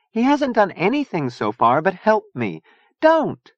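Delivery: high, urgent plea; plead, rising to a sharp final cry; begging. A narrator's reading. Chia defending Gomi Boy from Zona, pleading. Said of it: "Chia begged".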